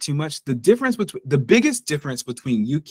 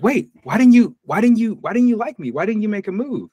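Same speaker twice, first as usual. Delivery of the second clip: high, mock girlfriend whine; 9 semitones higher than usual. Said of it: "And she was like".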